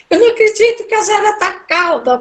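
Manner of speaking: high, quick, nervous disbelief. Retold or imitated. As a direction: blurt it out in tearful disbelief. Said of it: "eu chorava e eu tava muito nervosa". (descrença nervosa, aguda e rápida)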